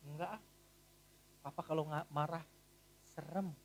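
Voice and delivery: put-on soft, low child reply; lightly voiced little boy; child answering. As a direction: answer shyly like a small boy. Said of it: "mamanya tanya".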